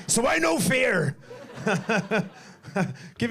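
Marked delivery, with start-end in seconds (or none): 0.1-1.7 slowed, high laugh through the words. Real, not acted. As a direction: chuckle it out, slower. Laughing through a grim joke.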